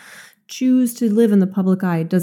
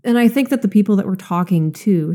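slight lisp from a tight retainer; 2 semitones higher than usual. Real, not acted. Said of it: "sorry, I'm lisping".

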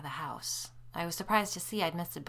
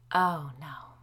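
groaning; 8 dB louder than usual. A narrator's reading. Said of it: "I groaned".

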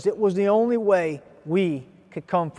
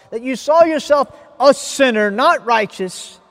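insistent, quickened preaching voice, a bit raised; confronting pulpit delivery; urgent preaching; 5 semitones higher, 5 dB louder than usual. Real, not acted. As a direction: press the congregation hard, words tumbling out.

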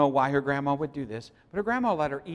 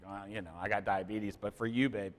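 low mock resignation; 5 semitones lower, 7 dB quieter than usual. Husband quoting his own reply.

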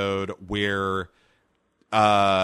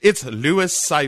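mock devil; 5 semitones higher, 4 dB louder than usual. Devil character introduces himself.

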